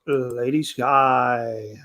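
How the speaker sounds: slow, drawn-out guest introduction; host introduction. Pretend. Host welcomes Lady Sky to the chat, drawn-out introduction. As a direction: stretch out the name like a show host.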